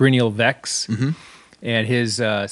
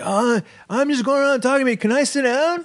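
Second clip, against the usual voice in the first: mock very high, slurred, barely managed drunk speech; 14 semitones higher than usual. Retelling what a very drunk man said at the bar: imitating a drunk man's slurred speech. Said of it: "He could barely talk".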